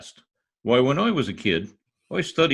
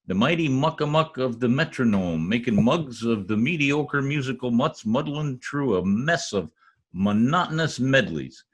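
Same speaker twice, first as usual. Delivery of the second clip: grand alliterative boast. Acted. Tongue-twister boast about himself.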